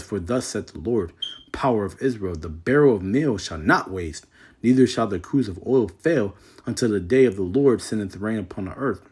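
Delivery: measured King James reading voice; scripture reading. Acted. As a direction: read the verse with solemn weight. Reads scripture aloud.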